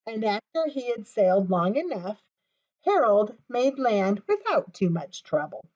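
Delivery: put-on gentle storybook reading for children; story narration. She reads Harold to young kids, storybook voice. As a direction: read it like bedtime for little listeners. Reads a picture book aloud.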